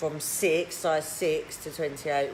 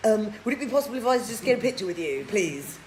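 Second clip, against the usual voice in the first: mock starstruck fan; 3 dB louder than usual. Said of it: "He'd go".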